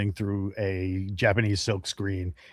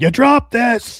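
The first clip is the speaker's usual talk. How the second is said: very loud, shrill, high-pitched, full-throated shout; 11 dB louder than usual. Throwing an axe at a goblin in the game: yelling in character. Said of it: "I'm gonna yell".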